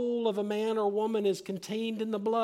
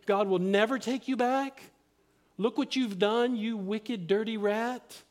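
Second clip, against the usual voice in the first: mildly raised, accusing taunt; scornful accusation, lightly acted; Satan's accusing voice; 3 semitones higher than usual. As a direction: jab at them as the accuser, slightly heightened. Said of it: "they've been lied to by Satan".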